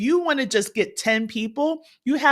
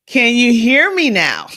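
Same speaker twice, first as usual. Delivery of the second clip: louder, checking the mic; louder sound check; calling out; 2 semitones higher, 9 dB louder than usual. Real, not acted. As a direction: make sure they hear you. Checking the live audio.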